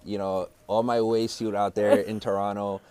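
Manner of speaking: put-on laid-back Toronto man's accent, slowed on some lines. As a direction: play a Toronto guy greeting the crew, lightly. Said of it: "can do an immaculate Toronto man's accent".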